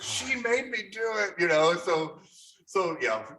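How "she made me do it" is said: innocent excuse. Retold or imitated. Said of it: "And I said".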